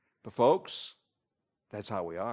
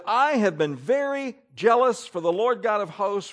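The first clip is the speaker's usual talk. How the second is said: worked-up reading, pitched high; emotional; 4 semitones higher, 4 dB louder than usual. Acted. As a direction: read it out with fervent feeling. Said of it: "Do those words sound emotional?".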